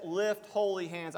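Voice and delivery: holy given the weight, Lift and hands lighter; preacher's stress on holy. Shown as a demonstration. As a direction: lean into holy to make the point. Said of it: "the emphasis is on the word holy".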